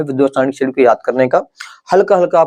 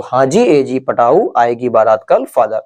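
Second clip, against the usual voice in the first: mnemonic recital; slower than usual. Shown as a demonstration. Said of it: "आपको पढ़ना ऐसे है".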